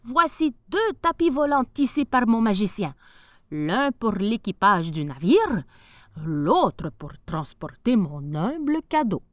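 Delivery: a grand ruler desperate to buy the rat-killer; eager sultan. Acted. Sultan presenting the carpets.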